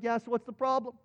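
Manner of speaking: casual, unbothered reply, acted out; relaxed. Prophet to his frightened servant about the army, relaxed. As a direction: play the master who sees no cause for worry. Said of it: "he just seems relaxed".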